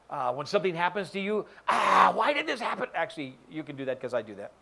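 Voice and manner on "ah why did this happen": louder mock whine, pitched up; hammed-up self-pity; self-pity wail. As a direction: wail it like a martyr. Mocking a self-pitying victim.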